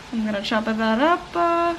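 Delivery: put-on light playful Italian accent, extra vowel on "up"; a hint of Italian accent, ending "up-a". Cook announcing the garlic chop, slight mock Italian accent. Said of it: "like, an Italian accent".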